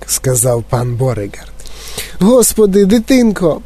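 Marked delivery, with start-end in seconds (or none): 2.2-3.6 high-pitched horrified cry; squealing. A narrator's reading. Mother appalled by her swelling child, squealing. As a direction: squeak it out in alarm. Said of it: "пропищала пані Борегар".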